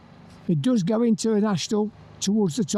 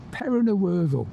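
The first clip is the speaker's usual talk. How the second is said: relishing the name. Real, not acted. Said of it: "I love saying that".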